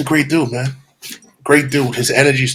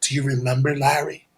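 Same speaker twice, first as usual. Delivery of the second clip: quiet menace; 7 dB quieter than usual. Retold or imitated. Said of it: "I was like this".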